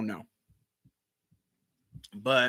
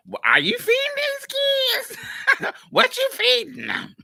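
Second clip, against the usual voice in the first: aunt voice; 4 dB louder than usual. Retold or imitated. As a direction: play the scolding old aunt. Aunts scolding mother, voiced high.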